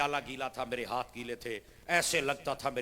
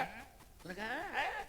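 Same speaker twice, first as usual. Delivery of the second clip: tag; 10 semitones higher, 11 dB quieter, much slower than usual. Acted. Boy's tiny answer.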